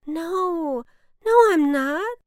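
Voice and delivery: loud, high protest; insisting. A narrator's reading. Boy denies being upset to the crying cloud, insisting. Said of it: "the boy insisted".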